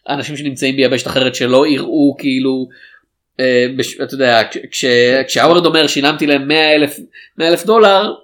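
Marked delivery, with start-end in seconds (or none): 5.9-8.1 imitating a bad liar, pitch climbing; trying to sound impressive. Howard bragging about what he paid, trying to sound impressive. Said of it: "והוא, והוא מנסה להישמע".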